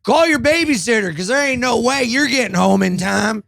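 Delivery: high-pitched, hammed-up old-timey threat; old-timey tough talk. Comic topping his co-host's joke threat, high mock old-timey bluster. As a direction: crow the threat like an old-time scrapper. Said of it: "old-timey".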